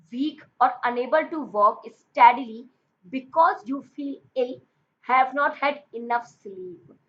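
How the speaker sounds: reading the definition out word by word, very slowly; slow dictation. Shown as a demonstration. Teacher dictating the English meaning to students, very slow and deliberate.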